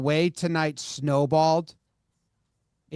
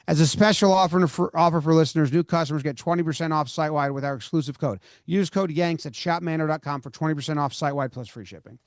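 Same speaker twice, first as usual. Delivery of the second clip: ad read; faster than usual. Real, not acted. Reads the sponsor's offer terms.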